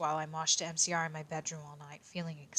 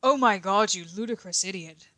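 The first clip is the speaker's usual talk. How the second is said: angry shout; 3 semitones higher, 7 dB louder than usual. A narrator's reading. Both boys yelling when they spot her. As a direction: snap it out furiously. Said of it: "they both shouted angrily".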